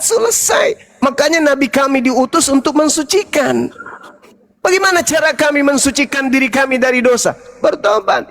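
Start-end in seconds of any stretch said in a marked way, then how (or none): none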